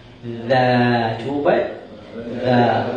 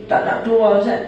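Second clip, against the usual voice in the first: mock whiny student; 8 semitones higher, 4 dB louder than usual. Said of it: "saya ceramah dekat satu tempat".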